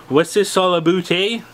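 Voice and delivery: put-on playful stock Canadian accent with a questioning "eh"; mock Canadian accent. Host demonstrating a viewer's superhero power, in a mock Canadian accent. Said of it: "speak in a Canadian accent".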